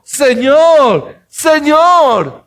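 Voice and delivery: high, slow, pleading cry to the Lord; desperate crying out. Acted. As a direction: cry out like a desperate mother begging for her daughter. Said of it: "¿qué gritó?".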